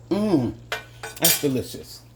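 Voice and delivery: talking with hot food in mouth; mouth burning. Real, not acted. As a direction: speak around a hot bite. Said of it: "Why do I tend to putting hot stuff".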